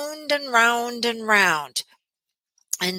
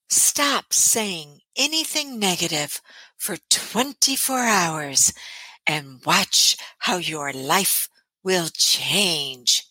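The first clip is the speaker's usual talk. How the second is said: clueless coach voice; 3 semitones lower, slower than usual. Acted. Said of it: "I'm a clueless coach voice".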